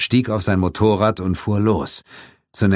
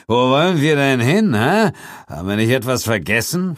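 cynical; 7 semitones higher than usual. A narrator's reading. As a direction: taunt her menacingly. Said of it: "fragte Brigham zynisch".

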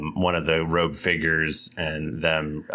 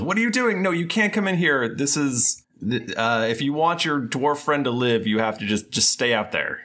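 higher, urgent cleric voice; smooth polished devil; 7 semitones higher than usual. Acted. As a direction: warn them off, pressed and firm. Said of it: "That's your devil voice?".

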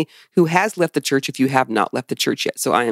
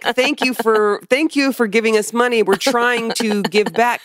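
gushing thanks; 5 semitones higher than usual. Retold or imitated. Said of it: "I'm trying to be like".

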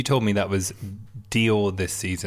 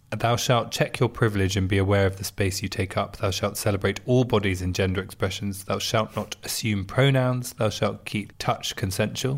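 commandment reading. Acted. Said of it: "The Chateau has ten commandments".

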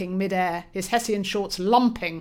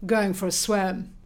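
coolly. Acted. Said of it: "remarked Sebastian coolly".

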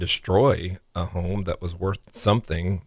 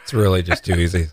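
laughing; 5 dB louder, faster than usual. Real, not acted. Cohost laughs at her choking.

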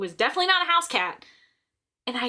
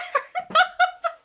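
squealing high laugh. Real, not acted. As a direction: burst into giggles. Laughing at her own story.

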